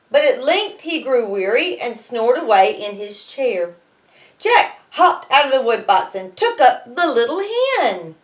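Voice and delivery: lively read-aloud storytelling; story narration. A narrator's reading. Teacher reading Jack and the Beanstalk to her class, lively narration.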